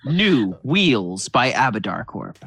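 slow, deep commercial read; ad announcer voice. Pretend. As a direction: announce it like a product ad. Mock ad for brand.

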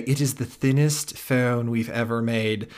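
mock British designer accent, lightly done; a deliberately bad British accent; horrible British accent. Imitating the designer in a horrible British accent. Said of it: "That is a horrible British accent".

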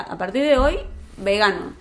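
mother to her son about veganism, mock strict decree. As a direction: lay down the law like a strict mom. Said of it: "es como que le diga".

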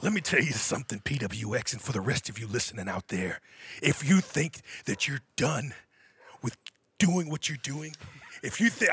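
wrestling promo. Acted. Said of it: "I haven't done a promo in so long".

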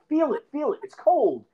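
high eerie voice, pleading; spooky mock ghost urging; a hammed-up haunting plea; creepy ghostly whisper.

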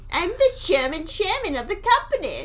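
silly German company boss; comic fake German announcement; bad German accent. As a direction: blur German into chairman with a mock accent. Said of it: "it almost sounds like chairman after a while".

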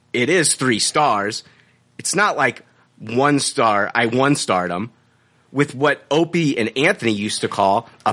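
mannered read-out with deliberate pauses; affected reading tone. Acted. Host reads out the reviewer's update, mannered affected tone. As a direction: read the complaint with put-on inflection, phrase by phrase. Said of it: "keep going with this, with this tone".

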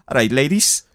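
put-on light Welsh accent greeting; lightly voiced Welsh chat-up line; a hint of a confident Welsh lad. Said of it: "That was a great Welsh accent".

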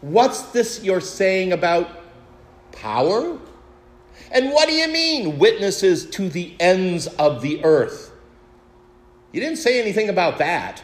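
disciple calling out. Retold or imitated. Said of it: "and to say".

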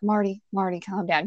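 dad quietly calming his wife. Retold or imitated. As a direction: settle an angry wife down gently. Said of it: "my dad's trying to calm her down".

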